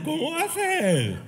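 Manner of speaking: mock husband laughing in disbelief. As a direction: chuckle through the mock outrage.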